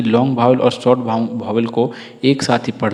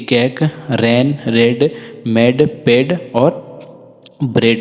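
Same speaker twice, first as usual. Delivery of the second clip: slow word drill; slower than usual. Shown as a demonstration. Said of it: "ये सब जो है so long वावेल sound के अंदर".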